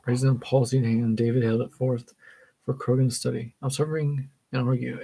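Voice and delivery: measured, even read-aloud voice; story narration. A narrator's reading. Reader reading a book passage aloud, story narration. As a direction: read it out carefully, phrase by phrase.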